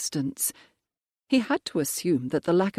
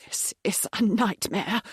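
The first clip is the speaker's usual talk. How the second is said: whispered, higher, gasping for air; a panicked old man fighting for breath; breathless whisper; 5 semitones higher than usual. Acted. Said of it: "started to gasp for breath".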